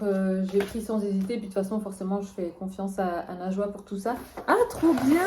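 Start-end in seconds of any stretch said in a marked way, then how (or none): 4.5-5.3 delighted. Real, not acted. Delighted unpacking her parcel.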